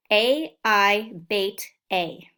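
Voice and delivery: slow, each letter and word set apart; slow sounding-out drill. Shown as a demonstration. Teacher drilling spelling sounds slowly for second graders. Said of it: "One way that we're gonna practice".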